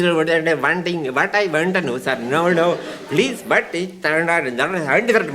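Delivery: lilting mock Indian accent; Goon-show Indian accent. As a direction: rattle it off in a comic Indian accent. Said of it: "Two Hindus played by Peter and Spike".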